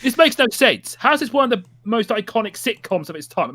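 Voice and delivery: worked-up baffled complaint; comic exasperation. Acted. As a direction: protest in mock bewilderment. Continuing rant about baffling sitcom.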